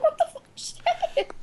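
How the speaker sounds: high, slow, dragged-out disbelief; retelling her reaction to the leap; mock disbelief. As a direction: draw it out in shocked bewilderment. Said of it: "I was like".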